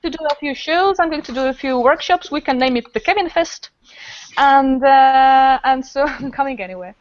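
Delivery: mildly hammed-up upbeat insistence; a hint of an eager American guest; playful Kevin quote. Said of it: "but he said".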